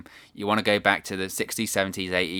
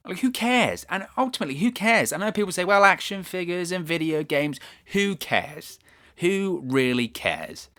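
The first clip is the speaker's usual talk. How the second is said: exasperated rant; 7 semitones higher than usual. Real, not acted. Ranting at WWE.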